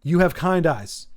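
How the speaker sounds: sincere and gentle. Retold or imitated. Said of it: "very sincere".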